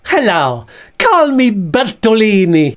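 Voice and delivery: lightly voiced puppet with mock Italian airs; Bert voice. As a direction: play a bag posing as Italian. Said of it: "This is Bert the Bag".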